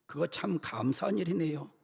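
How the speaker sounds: mild flustered pastor. Acted. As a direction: stammer out polite agreement. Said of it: "당황하면서".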